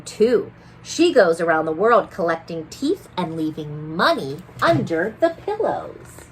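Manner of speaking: gentle read-aloud voice; picture book reading. A narrator's reading. Teacher reading a picture book to children. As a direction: read the story to little ones.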